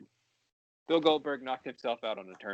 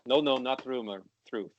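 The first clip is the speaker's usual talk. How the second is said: put-on Russian accent; 2 semitones higher than usual. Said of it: "in the Russian accent".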